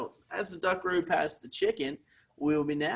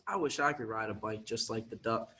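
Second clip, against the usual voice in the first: softer, lower wishful voice; wistful mouse thought; 4 semitones lower, 8 dB quieter than usual. Acted. Little mouse quietly wishes it could ride a bike.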